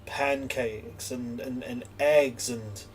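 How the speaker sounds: slow, halting disgust at the food; shuddering disgust. Acted. Coffee-ground eater shudders at normal breakfast food, disgusted. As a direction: list them with a shudder between items. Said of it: "they shudder and they're like".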